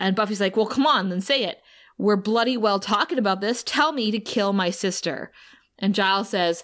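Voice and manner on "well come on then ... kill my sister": usual speaking voice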